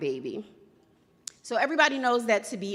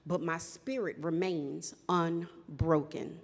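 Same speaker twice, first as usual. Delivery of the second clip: spoken word poem; 2 semitones lower, 4 dB quieter than usual. Acted. Poet performing her story to the slam crowd, measured and defiant.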